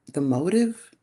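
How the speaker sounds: playful, rising lilt on "motive"; peculiar emphasis. Real, not acted. Tarot reader naming the motive to viewers, peculiar emphasis. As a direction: lift the end of "motive" with relish. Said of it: "I gotta say it like that".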